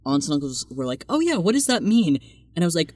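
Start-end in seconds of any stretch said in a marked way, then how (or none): 1.1-2.2 much higher, puzzled retelling; high mock-clueless question; mock puzzled relatives. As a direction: imitate relatives politely not getting it. Aunts and uncles quoted in confusion.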